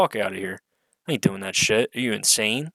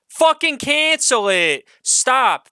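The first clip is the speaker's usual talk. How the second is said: much higher, louder, drawn-out yell; furious shout; 11 semitones higher, 5 dB louder, slower than usual. Real, not acted. Ranting at Paramount to cancel the show, furious shout. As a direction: bellow it at the studio. Peak of rant at studio.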